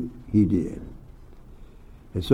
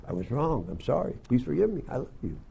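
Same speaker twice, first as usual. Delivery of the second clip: modelled apology; 10 dB quieter than usual. Acted. Models apology after running stop sign.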